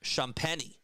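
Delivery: "Champagny" said as SHAHM-penny; pronunciation demo. Shown as a demonstration. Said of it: "name is pronounced".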